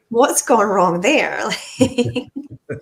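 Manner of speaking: laughing through the words. Real, not acted. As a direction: chuckle while you ask. Laughing at a bad cask.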